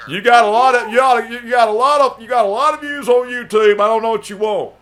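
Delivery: loud, high-pitched protest; heated argument. Acted. Arguing with Dan over his YouTube views, heated and loud. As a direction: argue back loudly, restarting as you go.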